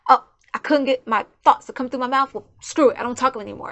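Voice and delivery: frustrated outburst. Retold or imitated. Frustrated person quitting talking.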